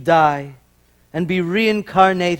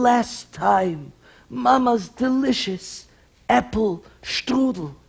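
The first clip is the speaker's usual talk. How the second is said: dying father's request; 4 semitones higher, slower than usual. Acted.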